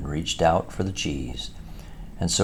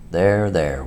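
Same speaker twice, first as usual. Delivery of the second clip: kindly; 4 dB louder than usual. Acted. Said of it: "went on the Badger more kindly".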